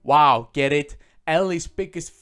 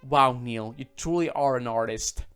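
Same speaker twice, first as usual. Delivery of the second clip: louder, deadpan mock praise; sarcastic; 2 semitones lower, 5 dB louder, slower than usual. Mocking the game's writer with louder deadpan sarcasm. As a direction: lay the fake admiration on thick.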